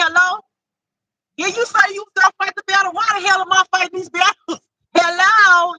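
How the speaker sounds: high, loud, laughing indignation; half-joking rant at God; exasperated complaint to God. Retold or imitated. Telling God off about the battles, high laughing indignation. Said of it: "I be like".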